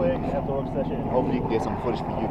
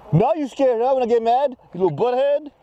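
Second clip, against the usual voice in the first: mock mad; 11 semitones higher, 3 dB louder than usual. Dad teasing son about anger.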